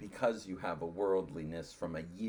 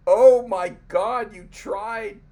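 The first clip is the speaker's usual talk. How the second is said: high, loud gushing mock guest; excited guest; 9 semitones higher, 10 dB louder than usual. Guest reacting to the sung anthem, gushing high and loud. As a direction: gush like the overjoyed guest. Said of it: "he was like".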